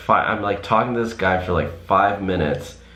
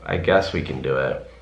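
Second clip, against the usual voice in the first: reluctant inner okay; slower than usual. Retold or imitated. Thinking to herself about the drive-through wait: slow, reluctant giving in. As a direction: give in grudgingly, stretching the okay out. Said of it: "in my head, I'm like".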